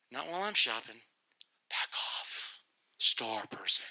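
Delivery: hushed aside under the breath; whispered. Retold or imitated. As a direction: whisper it to yourself while shopping. Muttering at the announcement.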